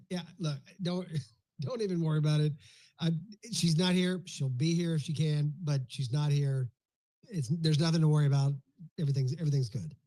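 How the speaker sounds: relaxed and breezy, with a laugh; casual, confident reassurance; easy, reassuring delivery. Shown as a demonstration. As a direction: put everyone at ease. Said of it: "Virtually the same words, different inflection".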